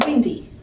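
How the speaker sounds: Windy stressed on its first syllable; strong-weak stress. Shown as a demonstration. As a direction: hit "Win" in Windy, ease off "dy". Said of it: "it's strong, weak syllables".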